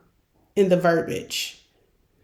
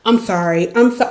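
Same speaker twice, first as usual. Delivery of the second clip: over-apologizing. Shown as a demonstration. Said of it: "always saying".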